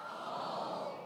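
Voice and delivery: breathy whispered "All"; whispered word. Acted. Congregation call, word whispered.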